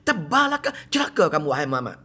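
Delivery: mock angry curse. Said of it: "dia kata apa".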